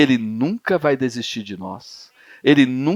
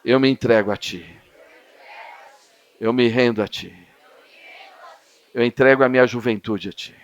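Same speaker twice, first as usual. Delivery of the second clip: prayer; 3 semitones lower than usual. Real, not acted. Leading a prayer.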